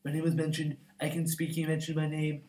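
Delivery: Donald Trump impression. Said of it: "I liked your Donald impression".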